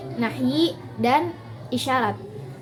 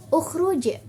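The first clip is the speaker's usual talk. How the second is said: ukhruj pitched up high as a command; highest tone; 5 semitones higher than usual. Shown as a demonstration. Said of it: "nada yang paling tinggi".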